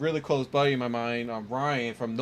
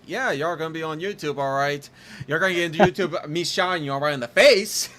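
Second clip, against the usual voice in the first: hyped reply; 4 semitones higher, 5 dB louder, faster than usual. Retold or imitated. His own hyped reply retold.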